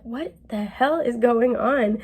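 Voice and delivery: slow, drawn out mock bewilderment; baffled. Reader voicing a confused couple, slow and baffled. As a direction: play the lost partner, exasperated and slow.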